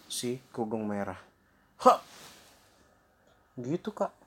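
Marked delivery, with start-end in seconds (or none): 1.8-2.0 short, sharp grab noise; a quick "hak" as if pouncing; sudden pounce cry. Acted. Wolf seizing the grandmother, sudden pounce cry.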